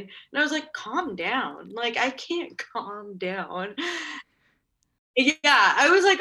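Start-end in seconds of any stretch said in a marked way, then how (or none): 0.7-3.8 slow, drawn-out retort dissolving into laughter; laughing disbelief. Retold or imitated. Nervous candidate answering receptionist's advice, laughing disbelief. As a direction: echo the advice incredulously, then laugh through it.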